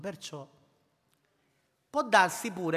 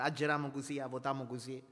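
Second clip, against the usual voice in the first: 1 Sicilian dialect; 2 semitones lower, 3 dB quieter than usual. Retold or imitated. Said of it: "Scusate se lo dico in dialetto".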